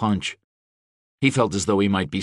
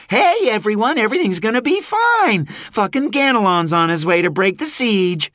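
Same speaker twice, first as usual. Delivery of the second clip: high, loud shout to the crowd; calling out; 5 dB louder than usual. A narrator's reading. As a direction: announce it to everyone.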